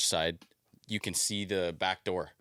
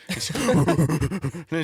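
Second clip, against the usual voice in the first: laughing, louder and slowed; giggling into the story; 8 semitones higher, 6 dB louder, much slower than usual. Real, not acted. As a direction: laugh breaking through the words. Laughing while telling story.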